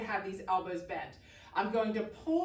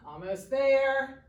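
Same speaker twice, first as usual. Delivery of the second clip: slow encouraging push; 4 semitones higher, 5 dB louder, slower than usual. Real, not acted. Pushing class through final reps.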